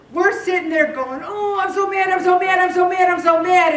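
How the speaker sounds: hammed-up stewing rage; mock fuming. Someone stewing over a grudge, a mock fuming shout. Resentful person stewing, acted.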